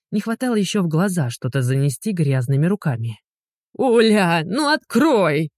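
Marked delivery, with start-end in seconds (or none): 3.7-5.5 drawn-out whining plea, a touch higher; whiny plea. A narrator's reading. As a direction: whine it like a pitiful ex. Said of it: "жалобно выл бывший". (жалобный вой)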